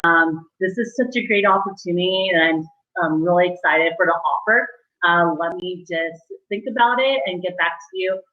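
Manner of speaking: thankful, measured enthusiasm; grateful. Shown as a demonstration. Candidate accepting a call about an offer, grateful. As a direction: thank them sincerely, keeping excitement in check. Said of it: "where you're grateful".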